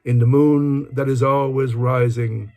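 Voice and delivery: measured, lilting poetry reading; poem recitation. Acted. Speaker reads a favourite Dylan Thomas poem aloud, measured recitation. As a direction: recite it in sustained phrases, pausing between lines.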